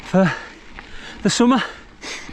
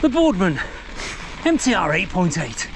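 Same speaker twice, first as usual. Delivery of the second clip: a gentle Yorkshire bike reviewer, slightly higher; Yorkshire impression; 3 semitones higher than usual. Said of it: "He talks a little bit like this".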